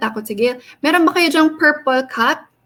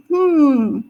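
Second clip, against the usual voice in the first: thinking hum. Acted. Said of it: "gawin niya nga yung action na ganun".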